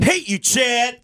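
high, hammed-up girlfriend screech; squealed mock breakup yell; mock angry girlfriend. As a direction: imitate a woman yelling at her boyfriend. Cohost mimics the arguing woman.

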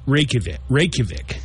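REYKJAVIK said "ray-kuh-vick"; anglicised Reykjavik, short final vick; everyday English pronunciation. Shown as a demonstration. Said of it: "It's Reykjavik".

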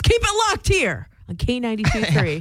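lightly voiced old-time radio host; radio catchphrase. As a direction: toss it out like a radio sign-off. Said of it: "as they used to say in the radio biz".

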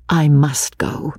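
slow, grave refusal; gravely. Acted. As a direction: say it seriously and slowly. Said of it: "she said gravely".

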